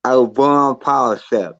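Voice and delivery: mumbled around fingers; fingers in mouth. Shown as a demonstration. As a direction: talk with two fingers in your mouth. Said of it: "say it with two fingers in your mouth".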